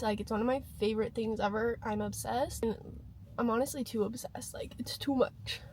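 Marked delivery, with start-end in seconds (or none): 3.4-5.6 hushed confession, voice gone breathy; whispering. Real, not acted. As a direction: whisper it like a secret. Confessing her obsession.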